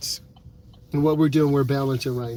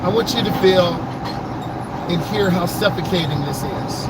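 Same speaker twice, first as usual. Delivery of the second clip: raised voice; 2 semitones higher than usual. Real, not acted. Instructor stuck in traffic stressing crash danger to viewers, raised voice. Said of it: "I'm sorry I'm yelling".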